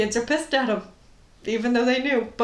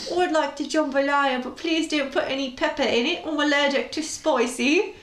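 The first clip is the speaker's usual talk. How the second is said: put-on British accent; 4 semitones higher than usual. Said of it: "a British man being like".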